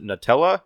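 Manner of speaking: "Nutella" with a short "nuh" start; "Nutella" opening like "nut", vowel reduced; first-syllable contrast. Shown as a demonstration. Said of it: "do you pronounce it".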